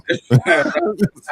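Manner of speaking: high burst of laughter; laughing. Real, not acted. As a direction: laugh out loud at an embarrassing memory. Laughs at mom memory.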